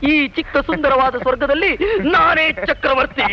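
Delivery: playful regal announcement; mock-grand proclamation. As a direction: declare yourself emperor of a tiny kingdom. Mock-regal boast to his friends.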